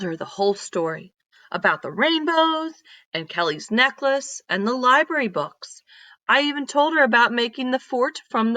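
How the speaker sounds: put-on lively read-aloud voice for kids; storybook reading. Teacher reading a story to her class, lively read-aloud. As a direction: tell it like a picture book to a class.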